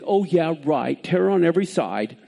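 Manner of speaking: low, dismissive sarcasm; mildly mocking echo of a prophecy. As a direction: toss it off like a doubting scoffer. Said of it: "now they're mocking him".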